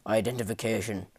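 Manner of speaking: blunt guard's demand. Acted. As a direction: demand it curtly, understated. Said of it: "one stated bluntly".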